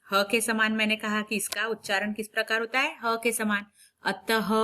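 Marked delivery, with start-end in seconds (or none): none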